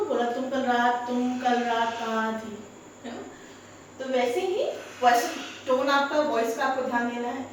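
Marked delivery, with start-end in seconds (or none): 0.3-2.6 calm question. Shown as a demonstration. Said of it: "मैंने आराम से नहीं पूछा".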